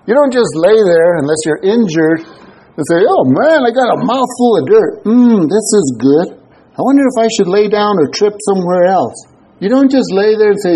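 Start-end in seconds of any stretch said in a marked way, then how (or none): 3.1-9.1 mock contented faller. Mock fallen person enjoying dirt.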